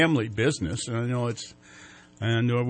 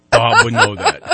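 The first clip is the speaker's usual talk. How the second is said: excited; 12 dB louder, slower than usual. Real, not acted. Teasing Bob about pirate day.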